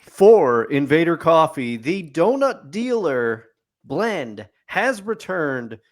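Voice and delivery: mock newscaster voice; news reporter. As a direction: announce it like breaking news. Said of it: "Dwayne Haskell reporting".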